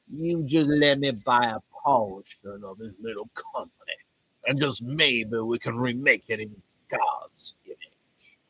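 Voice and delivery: preacher's put-on Texas drawl; attempted Texas accent. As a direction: bargain slowly in mock Texan. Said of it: "a Texas accent".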